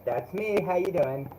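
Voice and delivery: distant, muffled mic sound; speaking far from the mic; far away mic. Real, not acted. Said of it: "You sound really far away".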